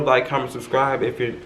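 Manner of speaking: talking through a mouthful of food; mouth full. Real, not acted. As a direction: say it while chewing food. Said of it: "I'm talking with food in my mouth".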